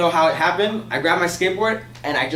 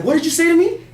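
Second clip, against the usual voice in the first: high, louder mock-furious comeback; outraged challenge, imitated; 13 semitones higher, 5 dB louder than usual. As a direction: throw it back like an insulted madman. Irate man reacts to the insult.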